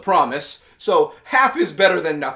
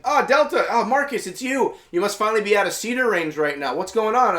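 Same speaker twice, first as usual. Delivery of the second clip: relieved surprise; 5 semitones higher than usual. Retold or imitated. Anya relieved on comms.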